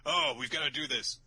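high, eager mock exclamation; excited girls. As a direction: mimic girls all fired up. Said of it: "they're all like".

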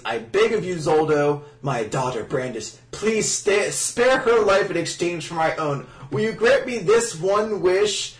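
hammed-up dying plea; mock pleading. Retold dying mother's plea.

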